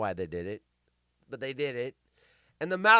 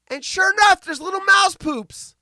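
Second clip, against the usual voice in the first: high emphatic telling; 13 semitones higher, 9 dB louder than usual. Real, not acted.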